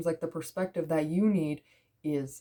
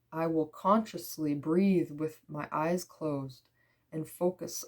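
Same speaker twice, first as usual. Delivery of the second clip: measured meditative card reading; affirmation reading. Real, not acted. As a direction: read each phrase unhurried, easing down at the end.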